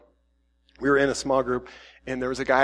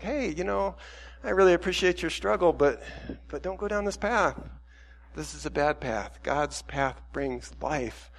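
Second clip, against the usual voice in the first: softly appreciative, then quietly cautioning; gentle warning; 5 dB quieter than usual. Pretend. Preacher voices a middle-ground word to a struggler, gently. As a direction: ease into a soft, caring caution. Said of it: "share some of that really gently".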